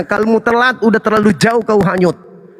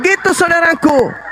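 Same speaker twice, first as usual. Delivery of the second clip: mocking laugh; 7 semitones higher than usual. Real, not acted. Taunting the Christian opponent.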